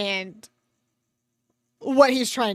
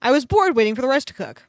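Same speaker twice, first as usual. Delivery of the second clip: fast reread; 6 dB louder, faster than usual. Shown as a demonstration.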